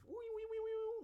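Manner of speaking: squeaky high-pitched wee sounds. Pretend. Playing with mic vibrations.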